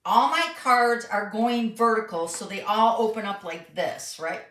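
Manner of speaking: talking through hiccups. Real, not acted. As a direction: speak while hiccuping. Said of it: "I got the hiccups".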